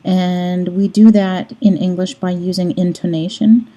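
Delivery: ordinary delivery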